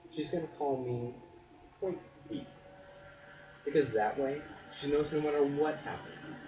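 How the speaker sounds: spoken-word delivery, lifting key phrases; earnest spoken-word poem; poetry recitation. Acted. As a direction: perform the poem with deliberate pauses. Recites second poem on parenting.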